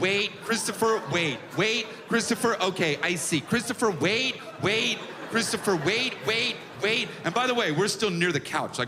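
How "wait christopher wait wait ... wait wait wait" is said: put-on annoying, fussing motherly woman voice. Imitating a woman calling for someone to wait, in a woman's voice. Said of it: "That's a woman voice".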